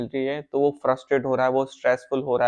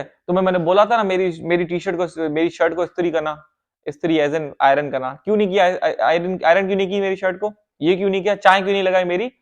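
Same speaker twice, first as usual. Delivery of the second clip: scolding husband; 4 semitones higher than usual. Retold or imitated. Husband scolds wife over unironed shirt, mock angry. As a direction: nag her like a petty husband, half-acted.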